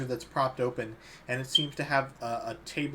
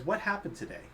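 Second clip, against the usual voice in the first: elven woman; 7 semitones higher, 4 dB quieter than usual. Acted.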